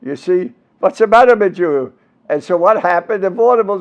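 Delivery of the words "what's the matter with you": imitated Jewish-accented father. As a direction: Jewish immigrant accent, pitched up a little. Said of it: "English with a Jewish accent".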